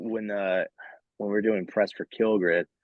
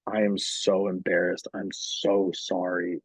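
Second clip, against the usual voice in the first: contrite imitation of a French interviewer; lightly mock French accent, drawn-out apology. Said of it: "with the accent that you were doing".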